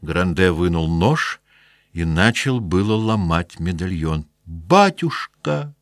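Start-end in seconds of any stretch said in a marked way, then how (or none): 4.5-5.8 high, slow anguished cry. Acted. Daughter crying out to stop her father breaking the locket. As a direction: stretch the word out in despair. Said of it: "закричала Евгения".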